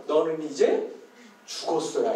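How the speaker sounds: low-pitched mock threat; cocky kid threat. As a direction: imitate a kid declaring the fight already over. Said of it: "근데 말투가 뭐예요?". (낮은 목소리로 으름장 흉내)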